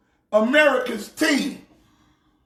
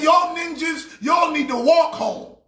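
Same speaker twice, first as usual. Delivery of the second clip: mock angry boss; 3 semitones higher than usual. Jerry Jones ordering his players to walk home, mock furious. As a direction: bark it like a furious owner. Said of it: "Jerry Jones so mad".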